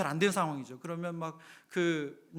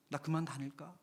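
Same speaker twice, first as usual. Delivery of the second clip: small, soft, cowed mumbling to oneself; quietly deflated, as if ready to give up; acted dejection; 2 semitones lower, 7 dB quieter than usual. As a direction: voice a timid person losing heart. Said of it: "아, 주눅 들어서".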